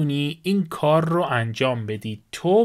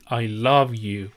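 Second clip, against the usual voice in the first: very slow, slightly lower; slow model phrase; 3 semitones lower, much slower than usual. Shown as a demonstration. Teacher models I love you for students, slow. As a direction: lay out each word for learners.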